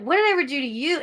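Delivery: mildly indignant, rising in pitch; retold indignant question. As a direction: mimic your own baffled indignation. Retold reaction to staring man.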